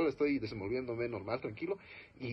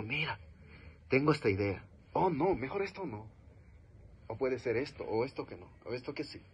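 hesitant, unsure; 4 dB quieter than usual. Shown as a demonstration. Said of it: "si en este momento yo te digo".

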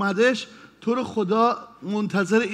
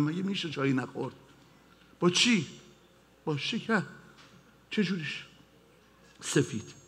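ordinary talk

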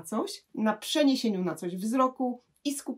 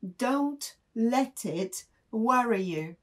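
slow model sentence; 3 semitones higher, much slower than usual. Shown as a demonstration. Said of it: "mogę na przykład komuś poradzić".

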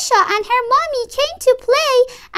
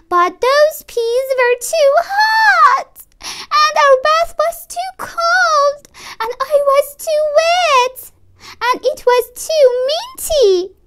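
whiny complaint; 3 semitones higher than usual. Acted. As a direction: whine about everything. Child whining at bath time.

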